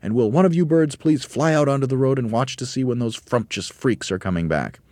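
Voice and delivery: high eager monkey voice; urgent high orders; Mugglewump urgent. A narrator's reading. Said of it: "cried Mugglewump".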